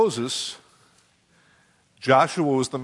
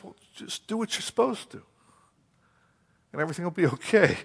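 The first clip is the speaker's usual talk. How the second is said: God's casual reply; 5 semitones higher, 4 dB quieter than usual. Acted. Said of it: "And God says".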